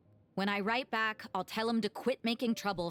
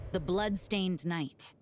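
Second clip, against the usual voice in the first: slow dramatic; slower than usual. Acted. Dramatic reveal of dark title.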